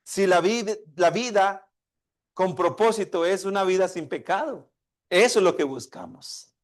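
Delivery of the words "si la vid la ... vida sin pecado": put-on higher, anxious child's question; worried child. Young son asking his father, a little worried. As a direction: let a boy's worry creep into the question. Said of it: "el niño ya un poco preocupado".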